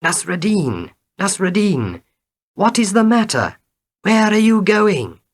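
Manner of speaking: high, loud, frightened calling out; frightened friend calling out to a rider; frightened shout. A narrator's reading. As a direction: shout across the field in alarm. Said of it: "shouted to Nasruddin".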